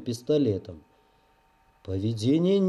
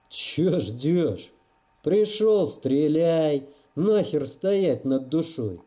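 put-on lightly rough, boozy old drunk; a hint of a hoarse drunk daring him; rough drunken voice; slower than usual. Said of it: "Голос у незнакомца оказался грубый, пропитый".

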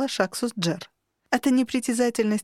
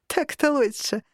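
laughing; 5 semitones higher than usual. Acted. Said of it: "рассмеялось существо".

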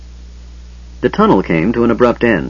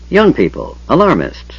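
put-on grumbling old man; 6 semitones higher than usual.

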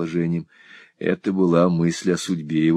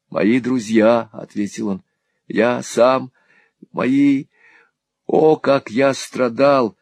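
high, slow anguished voice; Smike's pain; 5 semitones higher, 3 dB louder, slower than usual. A narrator's reading. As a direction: plead out the suffering slowly. Smike recalls his suffering. (Смайк страдальчески, медленно, высоко)

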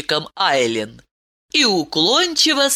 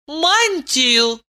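call out; 9 semitones higher than usual. A narrator's reading. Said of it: "крикнула Айлин".

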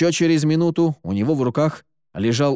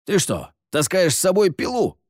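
exasperated scolding, pitch jumping up; indignant outburst; 7 semitones higher than usual. A narrator's reading. Stranger scolds Terry for carrying a saw, indignant. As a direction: scold the boy, incredulous. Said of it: "возмутился голос из темноты".

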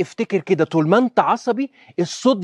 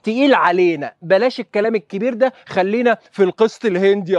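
a slightly higher, mock-pleading student voice; 4 semitones higher than usual. Students asking the doctor to go back a level, mock pleading. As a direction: play a student begging the doctor to go easier. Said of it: "ولو لقيتوه صعب قولوا لي".

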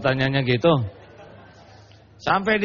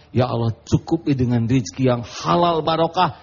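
grateful prayer; 3 semitones lower than usual. Retold or imitated. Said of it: "Keluar doa".

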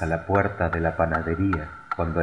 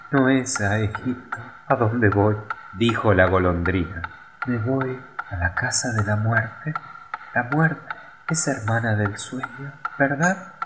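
swallow's voice; 4 semitones higher than usual. A narrator's reading. Swallow speaks before dying.

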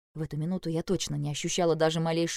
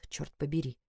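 muttered curse; 2 semitones lower, 6 dB quieter than usual. A narrator's reading. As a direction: mutter it softly to yourself. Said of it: "помолчал и пробормотал". (раздражённо пробормотать)

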